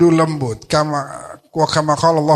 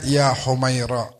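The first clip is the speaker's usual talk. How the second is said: tender endearment; 3 semitones lower, 4 dB quieter than usual. Retold or imitated. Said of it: "kalau dipanggilnya".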